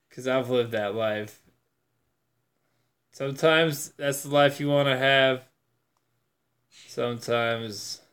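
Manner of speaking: a hint of mellow painter calm; Bob Ross. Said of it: "I'm speaking so mellow right now".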